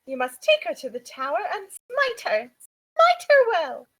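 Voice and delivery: slow, loud grand decree; mock proclamation. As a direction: proclaim it like a zealot. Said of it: "If anybody gets that reference".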